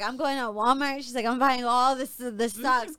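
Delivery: lightly acted excited girlfriend; a touch of retold elation, punching the plans; mock ecstatic. Girlfriend announcing a sock-buying spree, mock ecstatic. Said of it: "so she's all ecstatic".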